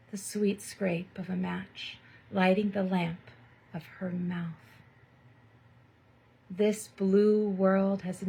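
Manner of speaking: slow, hushed, sensual poem reading with long pauses; poetry reading. Acted. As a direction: savour each image like a spoken-word poet. Reads a sensual poem aloud.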